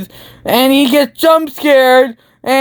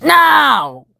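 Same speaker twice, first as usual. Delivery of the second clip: higher hammed-up no; mock refusal shout; 5 semitones higher than usual. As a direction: yell it in mock horror. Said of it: "Markiplier's like".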